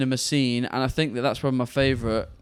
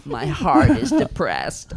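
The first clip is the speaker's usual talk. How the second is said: higher, slow put-on lament; hammed-up sorrow, stretched slow; mock mopey whine; 9 semitones higher, 4 dB louder, slower than usual. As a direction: wail it like a tragic drama student. Silly put-on voice bit.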